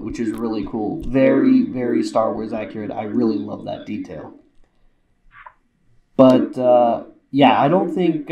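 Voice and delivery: muffled behind full face helmet; speaking through a helmet. Real, not acted. Seen 2: Full-face trooper helmet worn throughout; removed before 17.6.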